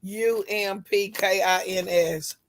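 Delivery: slow letter-by-letter spelling. Shown as a demonstration. Spelling the woman's last name for friends, slow and deliberate. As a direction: spell each letter slowly and clearly.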